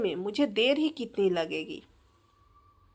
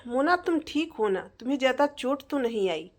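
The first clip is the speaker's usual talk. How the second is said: anxious husband; 3 semitones higher than usual. Acted. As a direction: hurry to check she is not hurt. Husband runs to fallen wife.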